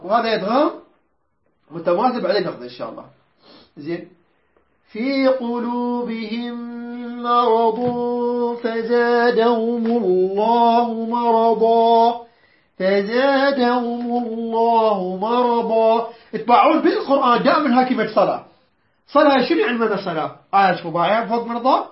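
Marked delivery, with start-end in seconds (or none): 4.9-16.1 slow measured tajweed chant; Quran recitation. Shown as a demonstration. Teacher recites the verse to the class in slow tajweed. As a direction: draw each word out like tilawa.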